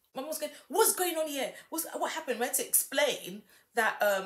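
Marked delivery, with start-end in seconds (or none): 0.7-2.4 put-on Nigerian accent, pitched up. Retelling a mum asking after the glass broke: imitating Nigerian-accented mum. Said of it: "that's why I put on the accents".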